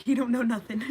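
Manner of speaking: laughing through the line; giggling repeat. Real, not acted.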